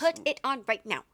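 stern angry mom order; nagging mom. Pretend. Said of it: "I could see you doing this".

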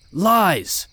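high-pitched outburst of denial; acted scream of accusation; sudden scream. A narrator's reading. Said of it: "my dad suddenly screamed".

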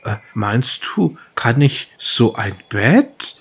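slow, hesitant donkey voice; timid donkey. Acted. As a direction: ask shyly, slowly, unsure of yourself. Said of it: "sagt so zaghaft". (zaghafter Esel, langsam und zögernd)

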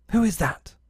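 put-on high-pitched boyish call; wary challenge. A narrator's reading. Peter to an unseen knocker at night, wary high call.

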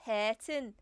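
put-on, slightly Brummy "Hareton"; northern-tinged "Hareton"; northern accent. Shown as a demonstration. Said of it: "That's almost northern".

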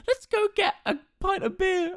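mock girl voice. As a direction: squeak it like an eager girlfriend. Quoting the girl in game.

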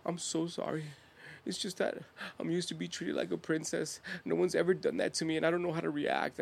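soft retold apology; small, sorry voice, lightly acted; meek apology. Acts her tearful apology.

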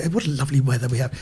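lightly voiced genteel British settler, soft and low; early British settlers. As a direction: play a pleased British newcomer, understated. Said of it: "the first British people came to Australia, they'd say".

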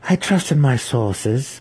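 stung matron defending her sources; defensive. A narrator's reading. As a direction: push back on the accusation. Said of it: "Malice replied defensively".

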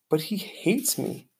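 little hamster protest, kept quiet; squeaky hamster. A narrator's reading. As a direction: squeak it softly like a tiny hamster. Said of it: "I squeaked".

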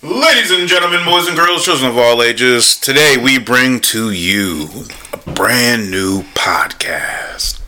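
booming announcer fading to whisper; ringmaster. Acted. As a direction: open big, end on a whisper.

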